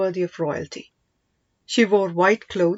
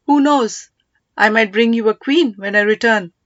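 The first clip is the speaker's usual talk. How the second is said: louder, teasing quip; playful; 6 dB louder than usual. Acted. King teasing his ministers about bringing back a queen, playful. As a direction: toss it off as a light joke. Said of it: "He had said it playfully".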